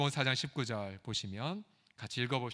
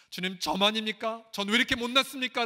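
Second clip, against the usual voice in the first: louder, higher pleading cry; mock anguished cry; 6 semitones higher, 4 dB louder than usual. Believer crying out to the Lord in anguish. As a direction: cry out to God, quickly. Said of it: "라고 절규할 때".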